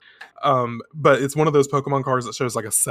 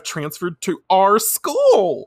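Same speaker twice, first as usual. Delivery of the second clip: excited announcement; 6 semitones higher, 5 dB louder, slower than usual. Retold or imitated. Friend announces idols' transfer, acted.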